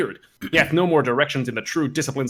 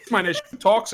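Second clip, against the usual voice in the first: laughing; 6 semitones higher than usual. Acted. Reader laughing through line.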